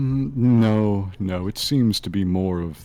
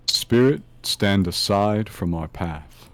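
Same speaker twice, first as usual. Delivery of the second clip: slow commanding psychic voice; seance medium; slower than usual. Acted. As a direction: command the spirit, slow and firm. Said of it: "a little oomph in the psychic voice".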